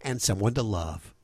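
measured radio ad read; radio host's sponsor credit. Acted. Host reads sponsor message.

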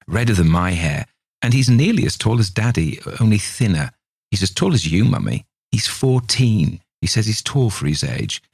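lightly voiced small girl, chattering eagerly; a hint of a child telling her mother about a friend; little girl voice. Little girl tells her mother about Harry, lightly voiced child.

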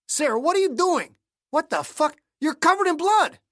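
high, alarmed outburst; startled, rising in pitch; shocked. Acted. Shocked at bloody Sarah.

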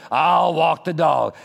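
very slow grudging I'll walk the dog; reluctant, drawn out. Pretend. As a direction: stretch I'll walk the dog out like a heavy sigh. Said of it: "in such a way that I really don't want to".

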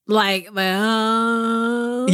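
drawn-out creaky trailing vowel; vocal fry. Shown as a demonstration. Co-host checks what the updated Californian accent is, vocal fry. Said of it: "trailing off vocal fry".

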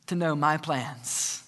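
lightly voiced fatherly God. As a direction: speak down calmly as God correcting. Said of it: "And God says".

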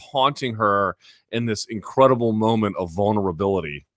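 ordinary delivery

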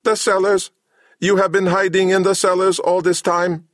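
high, squeaky mechanical disbelief; high machine voice failing to carry its shock; shocked robot. A narrator's reading. Samhet learns Cabal hid in the cellars, high robot voice. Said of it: "failed to put over his shock".

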